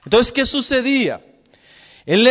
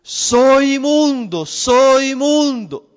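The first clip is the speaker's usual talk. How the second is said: a mild mock cry, higher and slow; leper's cry; 4 semitones higher, much slower than usual. Leper calling from outside the city, slow mock cry. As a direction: call it out slowly like a leper warning people off. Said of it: "él tenía que gritar".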